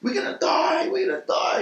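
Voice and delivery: very high, squealed imitation of panic; retold panic. Imitating his friend on the boat during the attack, high panicked squeal. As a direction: mimic a terrified friend in falsetto. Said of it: "Devon's like".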